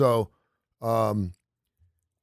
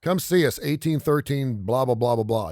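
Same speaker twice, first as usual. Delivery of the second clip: mock radio ad; 4 semitones higher, 3 dB louder than usual. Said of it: "You're telling me the address".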